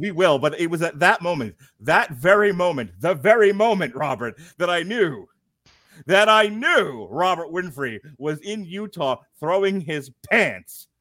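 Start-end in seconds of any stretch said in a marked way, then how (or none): 0.4-9.2 higher and louder, building with each very moment; dramatic build. Acted. Host mock-accusing his co-host, rising dramatic build. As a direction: lean harder on every very moment, mock-grand.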